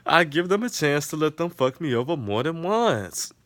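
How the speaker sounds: high, giggling reprise of the line; laughing through the quote. Retold or imitated. Friend repeating Issa's line to listeners, laughing. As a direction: crack up while repeating it.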